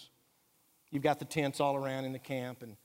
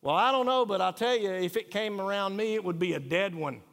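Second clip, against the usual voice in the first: mock tough reply; 3 semitones higher, 4 dB louder than usual. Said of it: "someone puts down there".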